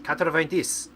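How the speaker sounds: "Quatre-vingt-dix" in a French accent. Shown as a demonstration. Defending their French to a viewer, French accent. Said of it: "I'm speaking with a French accent".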